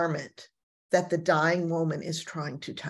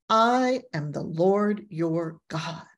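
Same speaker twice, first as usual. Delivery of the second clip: solemn, slow divine declaration; slower than usual. Acted. Repeating God's declaration slowly.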